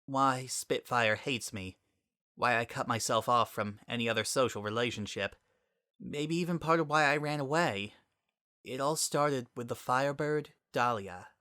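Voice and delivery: steel yourself to tell it; resigned Sunset. Acted. Sunset begins confession.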